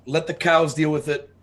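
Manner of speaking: yelling back. Acted. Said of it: "I yell back at Lex".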